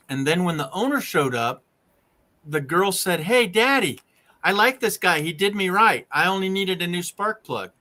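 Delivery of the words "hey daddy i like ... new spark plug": a happy daughter, pleased with the mechanic; retold daughter voice. Daughter thanks dad in story.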